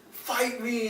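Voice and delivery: acted challenge. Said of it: "and so he says".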